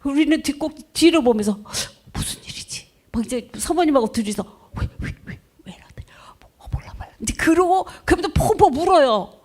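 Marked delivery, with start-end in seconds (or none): 2.1-2.9 whispered aside, barely voiced; hushed whisper. Pastor whispering to his wife about a crying member, hushed. 4.8-7.1 hushed puzzled whisper. Retold or imitated. Pastor and wife whispering about a sobbing congregant, hushed.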